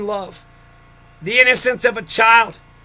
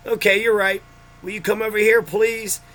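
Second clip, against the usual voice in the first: softer, easy coaxing to the dogs; calm, gentle request; 4 dB quieter than usual. Shown as a demonstration. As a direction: talk the dogs in calmly. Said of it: "at the time I'm pretending".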